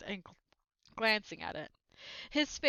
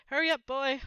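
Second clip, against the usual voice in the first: loud impatient call, higher; shout; 5 semitones higher, 8 dB louder than usual. A narrator's reading. Uncle shouting at Harry from the kitchen, loud and impatient. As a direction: bellow for the boy to hurry. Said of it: "shouted Uncle Vernon".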